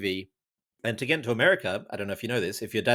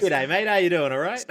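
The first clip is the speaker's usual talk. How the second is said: hammed-up ocker Australian greeting, pitched higher and louder; broad Aussie accent; 7 semitones higher, 3 dB louder than usual. Shown as a demonstration. Guest shows the hosts his broad Australian greeting. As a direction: lay on a thick Australian accent, high and bright. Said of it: "my girlfriend's least favourite thing is when I say that".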